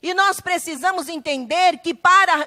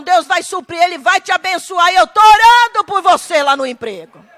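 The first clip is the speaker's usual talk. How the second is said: louder, joyful reassurance; wife cheering her husband over a small salary, louder; encouraging wife; 6 dB louder than usual. Acted. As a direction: lift up the husband with praise.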